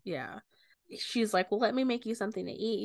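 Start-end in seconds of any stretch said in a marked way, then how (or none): 1.5-2.8 mildly anxious, rushed mother voice; anxious offer. Retold or imitated. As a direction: offer it quickly, a touch nervously. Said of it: "You can tell she's, like, anxious".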